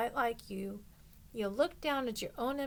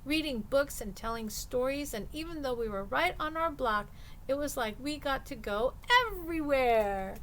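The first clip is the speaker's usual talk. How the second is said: a little higher and surer, growing in confidence; stronger voice; 3 semitones higher, 4 dB louder than usual. Acted. Angelina sharing her summer with the class, mildly stronger. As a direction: speak up, gaining courage as you go. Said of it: "your voice stronger than it was".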